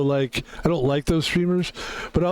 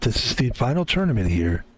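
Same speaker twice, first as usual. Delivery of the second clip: golf voice; 3 semitones lower than usual. Shown as a demonstration. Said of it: "I've got my golf voice on".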